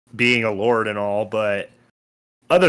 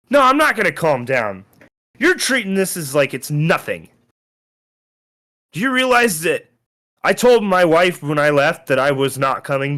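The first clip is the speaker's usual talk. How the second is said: higher, heated insistence; face-to-face anger; 3 semitones higher than usual. Acted. Lord's Alliance member confronting the player eye to eye, angry. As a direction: lean into his face and press every word. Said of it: "gets right up in your face".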